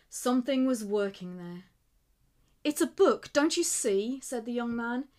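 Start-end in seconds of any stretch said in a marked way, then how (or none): 2.6-4.2 higher and louder, bursting with the idea; excited. A narrator's reading. Young writer tells Slugger his book idea, excited and loud. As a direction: sell the idea with rising excitement.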